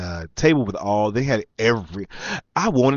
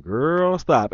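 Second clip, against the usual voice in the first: hammed-up "girl, stop", high then dropping; exaggerated sass; 5 semitones higher than usual. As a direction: lay on the sassy dismissal thick. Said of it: "and really exaggerate it".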